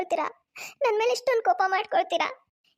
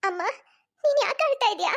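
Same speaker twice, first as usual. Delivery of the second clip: put-on ten-year-old boy; 4 semitones higher than usual. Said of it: "ಅವಳ ಹತ್ತು ವರ್ಷದ ಮಗ ಅಭಿ ಬರ್ತಾನೆ".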